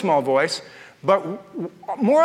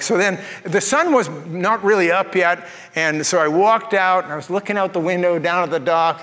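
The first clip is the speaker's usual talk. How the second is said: ordinary delivery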